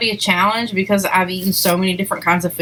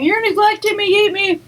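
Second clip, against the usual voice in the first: vegetables voice; 11 semitones higher than usual. Retold or imitated. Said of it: "they're, like, yelling at me".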